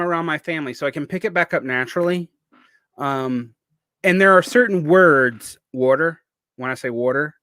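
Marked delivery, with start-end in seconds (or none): 5.7-7.4 "water" in the speaker's native Southern accent; natural Southern accent. Shown as a demonstration. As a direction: let the home accent out on "water". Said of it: "that's my natural accent".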